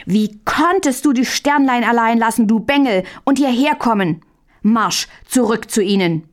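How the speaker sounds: angry scolding, pitch up; shouting. Acted. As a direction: bark at the little brother. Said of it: "schrie Möndlein es an". (Möndlein schreit den Bruder wütend an)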